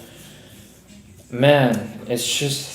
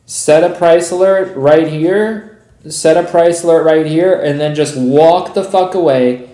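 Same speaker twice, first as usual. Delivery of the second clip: exasperated emphasis; 3 semitones higher, 4 dB louder than usual. Real, not acted. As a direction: hammer home the advice, fed up. Exasperated advice to viewers.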